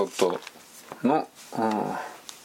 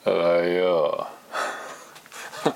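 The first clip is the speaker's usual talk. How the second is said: sleepy lazy voice; 4 semitones lower, slower than usual. Shown as a demonstration. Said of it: "朝は寝ぼけの、あの、気だるい感じ".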